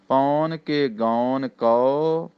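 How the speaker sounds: slow phrase, resting on ਕਉ; pause after ਕਉ. Shown as a demonstration. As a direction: draw it out and stop on ਕਉ. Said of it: "ਕਉ ਤੇ ਫੇਰ ਥੋੜ੍ਹਾ ਜਿਹਾ ਠਹਿਰਾਓ".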